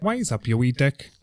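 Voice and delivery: put-on copying a Belfast accent; imitated Belfast lilt; mock Belfast accent. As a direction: have a rough go at Belfast. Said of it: "do a Belfast accent".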